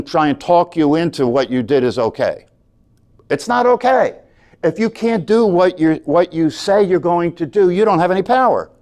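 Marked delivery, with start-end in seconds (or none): 3.3-8.7 emphatic. Real, not acted. Teacher insisting to students, emphatic and raised. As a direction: lay down the law.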